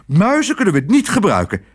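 hoog en beslist, klemtoon op niet. Acted. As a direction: zeg het resoluut. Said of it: "zei tante Mies beslist". (tante Mies weigert de muizen: beslist)

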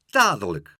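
loud, insistent single word; screeched demand. A narrator's reading. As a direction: demand it at once. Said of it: "krijste Leentje". (eisend, luid)

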